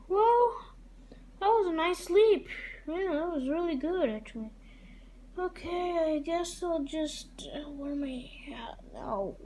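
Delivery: put-on girly high voice. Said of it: "why do I sound like a girl?".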